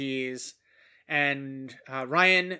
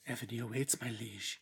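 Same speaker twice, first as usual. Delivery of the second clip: deep regal ad announcer voice; mock ad voice; 6 semitones lower, 15 dB quieter than usual. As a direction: intone it like a game trailer. Mock ad voice of game slogan.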